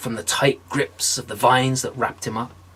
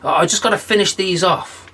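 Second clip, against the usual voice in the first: higher, stammering stall; stalling John; 3 semitones higher than usual. Acted. John stalling the devil, stammering higher. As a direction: fumble for excuses. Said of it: "he says".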